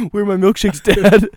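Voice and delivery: high, loud whining demand; mock rude customer. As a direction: play an outraged customer, hammed-up. Joins in mimicking the rude customer.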